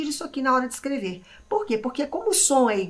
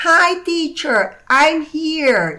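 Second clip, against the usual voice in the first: student answer; 4 semitones higher, 7 dB louder, much slower than usual. Shown as a demonstration. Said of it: "digam pra mim aí".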